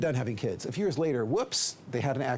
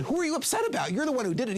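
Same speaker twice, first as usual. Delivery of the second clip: high, exasperated comeback; challenging; 9 semitones higher than usual. Acted. Counselor arguing with the upset man, challenging. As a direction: throw the blame back at a high pitch. Counselor argues back at client.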